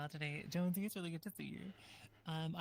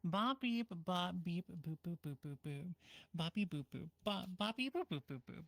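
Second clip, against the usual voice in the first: toy robot voice. Pretend. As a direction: babble like a little toy robot. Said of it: "to talk only in beep boops".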